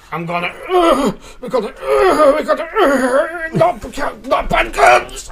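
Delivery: a candidate losing it mid speech, laughing; laughing breakdown. Retold or imitated. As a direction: voice cracking into laughing sobs.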